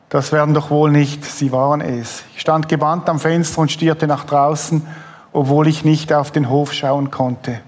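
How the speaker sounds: steady book reading; lightly moved reading of a memoir scene; reading aloud from a book. Acted. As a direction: read the passage to the audience. Host reads book passage aloud.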